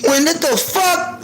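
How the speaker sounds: scolding myself. Retold or imitated. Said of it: "I just had to check myself".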